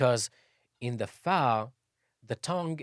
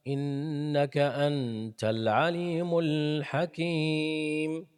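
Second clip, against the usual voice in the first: Quran recitation. Acted.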